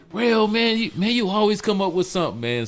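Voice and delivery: playful mock praise; quoting Dennis. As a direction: tease him like an impressed buddy. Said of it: "he's like".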